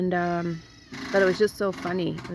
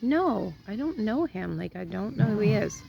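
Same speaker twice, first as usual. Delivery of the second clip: retold denial; 4 semitones higher than usual. Retold denial of knowing the man.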